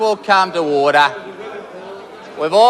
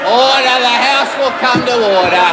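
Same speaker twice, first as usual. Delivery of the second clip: shouting order; 3 semitones higher than usual. Real, not acted. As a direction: bark it to silence the House. Speaker calling House to order.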